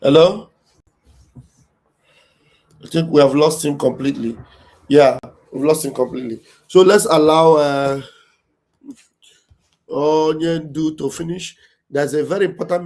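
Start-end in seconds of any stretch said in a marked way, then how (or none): 0.0-0.5 loud "Hello?" into the silence; calling out. Real, not acted. Checking if caller dropped. 2.8-11.6 loud. Real, not acted. Host speaks up after line drops.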